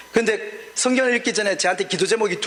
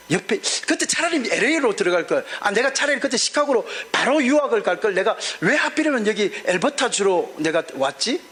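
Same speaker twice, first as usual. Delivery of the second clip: lamenting prayer; 3 semitones higher than usual. Retold or imitated. Pastor reenacting his prayer of doubt to God, pleading. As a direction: pour out the complaint to God, stretching the key words.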